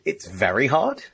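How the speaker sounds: "it's very hard?" rising on "hard"; mirrored as a question. Shown as a demonstration. Coach mirroring again with a rising tune. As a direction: echo it back, lifting at "hard". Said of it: "And I will mirror you".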